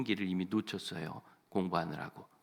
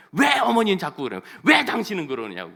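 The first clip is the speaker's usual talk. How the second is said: loud, higher angry outburst; angry husband; 8 semitones higher, 11 dB louder than usual. Retold or imitated. The husband angrily shouts at both his mother and his wife. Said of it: "막 둘 다 화를 내".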